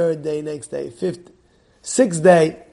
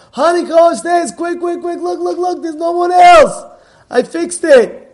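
much higher and louder, rushing and eager; excited husband; 10 semitones higher, 7 dB louder than usual. Retold or imitated. Husband in the story urging his wife to see, excited and much higher. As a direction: call her upstairs like a proud, thrilled kid.

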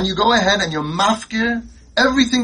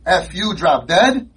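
put-on defiant kid; slower than usual. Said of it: "The kid said".

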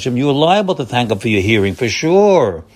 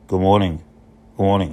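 lower, offhand good morning with no feeling; flat greeting; 4 semitones lower than usual. Shown as a demonstration. Rabbi showing the wrong way to greet, flat and lower. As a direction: toss it off without warmth. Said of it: "No, you don't say".

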